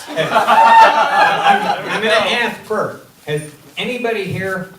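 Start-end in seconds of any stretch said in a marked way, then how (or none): 0.0-3.1 high laugh breaking into words. Real, not acted. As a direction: laugh through the opening. Teller laughs starting joke.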